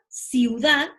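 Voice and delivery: "ciudad" said as a single held example, rising at the end; modelled example word. Shown as a demonstration. Teacher models a diphthong word for the class. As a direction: lay out "ciudad" so the diphthong iu is heard. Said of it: "cerrada más cerrada".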